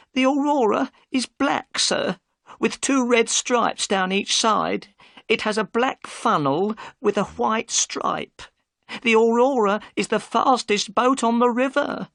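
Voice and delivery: high, careful wife listing details; Mrs Smith, describing. Acted.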